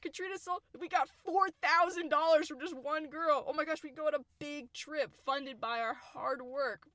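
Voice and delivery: high, giddy acted amazement; put-on breathless-with-joy announcement; excited celebration. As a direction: gush like thrilled scouts with a windfall. Acting out scouts' excitement over money.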